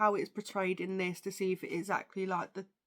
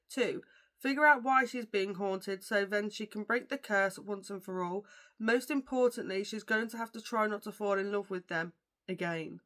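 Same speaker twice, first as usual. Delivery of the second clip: reading a book blurb aloud. Acted. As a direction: read the back cover to viewers. Reads the back cover blurb.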